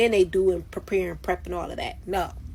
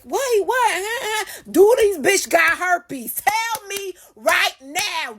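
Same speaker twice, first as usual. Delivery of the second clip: panicked high wail; 11 semitones higher, 3 dB louder, slower than usual. Retold or imitated. Acting out panic, high and crying.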